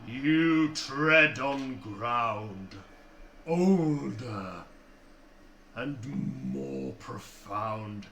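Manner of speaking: slow, booming giant voice; giant's booming voice. Acted. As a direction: boom it out like a giant. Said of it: "shouting out".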